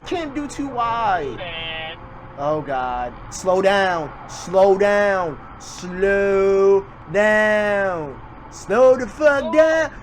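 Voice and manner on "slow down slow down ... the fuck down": yelling slow down. Real, not acted. Viewer yells at the speeding driver to slow down, louder. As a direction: build from firm calls to a drawn-out yell.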